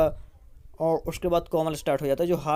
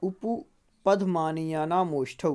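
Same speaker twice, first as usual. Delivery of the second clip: sutra said slowly once more; slow repeat; slower than usual. Shown as a demonstration. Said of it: "फिर से".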